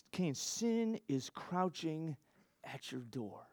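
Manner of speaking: slow, hushed solemn warning that sinks to almost nothing; God warning Cain. Retold or imitated. Preacher voicing God warning Cain, slow hushed gravity. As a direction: warn him gravely, drawing each word out.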